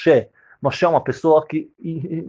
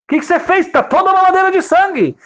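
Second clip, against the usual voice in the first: much higher, louder shocked cry; alarmed father; 4 dB louder than usual. Acted. Father shocked at the bottle full of blood, high alarmed. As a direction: exclaim in horror.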